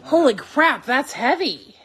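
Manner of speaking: surprised. Real, not acted. Lifting heavy container again.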